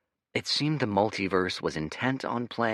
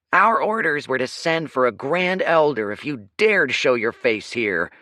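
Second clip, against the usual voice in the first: stern guard; 8 semitones higher, 9 dB louder than usual. Acted. Guard confronts outsider.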